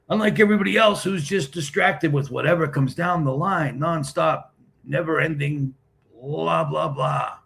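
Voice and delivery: high, droning mockery of endless chatter; mocking rant. Streamer mocking everybody distracted by nonstop chatter, high mocking rant. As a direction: reel it off high, scornfully dragging out the blahs.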